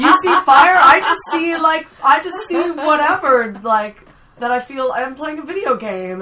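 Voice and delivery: high, loud, laughing voice; laughing mock disbelief. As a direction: play oblivious, laughing through the words.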